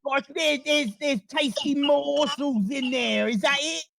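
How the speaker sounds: a rat piecing the plan together, high and squeaky. Acted. Rat checking the adventurer's plan, high and squeaky. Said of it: "He looks at you and he says".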